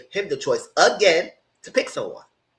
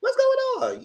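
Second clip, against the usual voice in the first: high, mock-pitiful cry voice; high falsetto mock sob. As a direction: imitate a whiny boohoo cry. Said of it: "boohoo crying".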